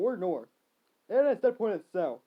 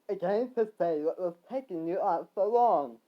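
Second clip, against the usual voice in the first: mild yell; 4 dB louder than usual. Acted. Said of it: "yelled the first one".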